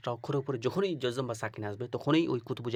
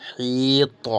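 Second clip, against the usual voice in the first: much louder drilled spelling; 11 dB louder, much slower than usual. Shown as a demonstration. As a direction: spell it out very loudly, like calling to a class. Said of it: "spelling out loud".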